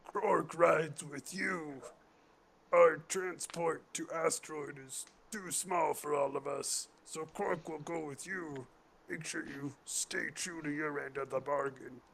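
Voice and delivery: Krork. Acted. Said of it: "Krork turns to face the".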